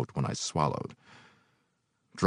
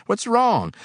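bewildered; 6 dB louder than usual. A narrator's reading. Helper baffled by screaming boss.

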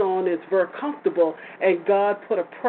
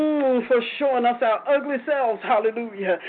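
prayer. Acted. Prayer settling into thanksgiving.

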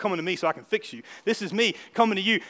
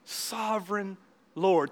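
slow reverent call; 6 dB quieter, much slower than usual. Shown as a demonstration. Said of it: "Think of those words".

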